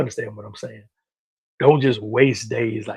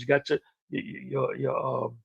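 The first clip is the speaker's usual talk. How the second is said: stumbling, repeating "your"; stuttering; 7 dB quieter than usual. Real, not acted. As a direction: stutter over the words. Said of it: "I'm stuttering today".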